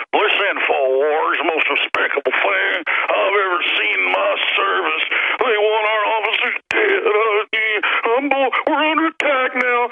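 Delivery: high, slow mock outrage; mocking the officer. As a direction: ham up a whining cop. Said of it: "he's probably even putting that accent on".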